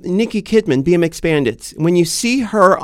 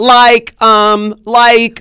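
mock valley talk; 4 semitones higher, 6 dB louder, much slower than usual. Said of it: "or they say".

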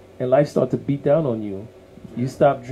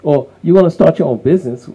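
mocking doubters; 2 semitones higher, 6 dB louder, faster than usual. People around mocking someone going to school, scoffing and louder. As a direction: sneer at the dreamer. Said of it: "everybody around telling you".

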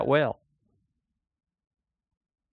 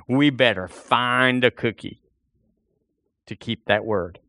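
put-on trusting child. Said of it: "looks at her daddy and says".

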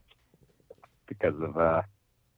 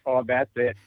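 put-on Midwestern accent, a bit higher; 4 semitones higher than usual. Imitating a Midwestern lover in bed, Midwestern accent. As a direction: coo it in a broad Midwestern accent. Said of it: "the same as, like, a Midwestern accent".

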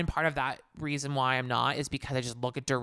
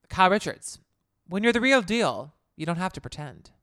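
lightly voiced Housewife tagline read; a hint of a smug tagline read; playing Kyle Richards; 4 semitones higher, 3 dB louder than usual. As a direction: deliver it like a confident reality star. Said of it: "I am Kyle".

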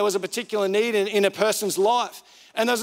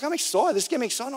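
mildly pumped, pitched-up quote; imitated excitement; 4 semitones higher, faster than usual. Wife thrilled about giving money away, mildly excited imitation. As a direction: play someone keen, lightly and higher. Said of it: "she was genuinely excited".

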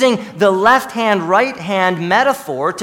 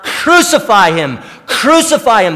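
crowd's cry; 3 semitones higher, 7 dB louder than usual. Retold or imitated. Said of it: "they cried out".

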